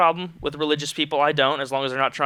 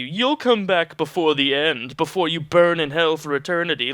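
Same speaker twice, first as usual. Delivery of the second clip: mock sneer. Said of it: "just sneering down at you".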